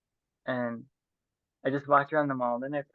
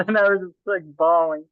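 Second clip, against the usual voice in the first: laughing through tears; 5 semitones higher, 11 dB louder than usual. Real, not acted. Laughing while recalling crying.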